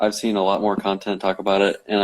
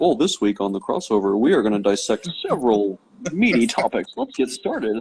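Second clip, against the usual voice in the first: snooty, lofty, uppity tone with swooping sing-song; 2 semitones higher than usual. Imagining how he talks on the show, the speaker does an uppity voice. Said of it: "it's pretty uppity".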